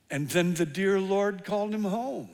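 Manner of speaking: mock-pious, solemn tone; hint of a pious choirboy. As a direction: put on a holy, churchy voice. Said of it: "says in a very pious voice".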